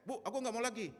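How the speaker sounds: high, loud retold schoolboy protest. Pupil telling teacher they will not teach anymore, protesting. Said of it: "Hanya aku protes".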